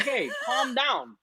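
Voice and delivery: calm down. Retold or imitated. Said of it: "I'm like".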